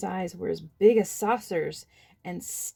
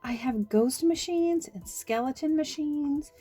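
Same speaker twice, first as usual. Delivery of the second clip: lightly higher, timid little man's voice; small nervous voice explaining himself; shy little man; 4 semitones higher than usual. Acted.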